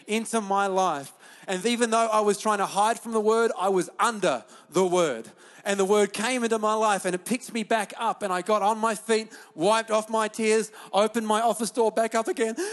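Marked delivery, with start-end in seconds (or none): 1.5-12.6 raised, insistent preacher's voice; fired-up preaching. Real, not acted. Pastor urging the church to keep reading, fired-up preaching. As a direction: preach it with rising urgency.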